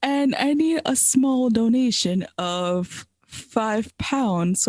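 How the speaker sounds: slow, put-on English accent. Improvised scam pitch as Harry's cousin, mock English accent. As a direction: play-act a scammer with an English accent. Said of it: "Okay, you're from England".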